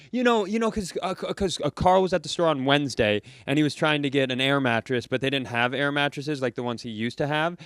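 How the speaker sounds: mild imitation of a nonstop talker; chatty daughter. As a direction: babble on about family trivia. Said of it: "the daughter is talking at a rate".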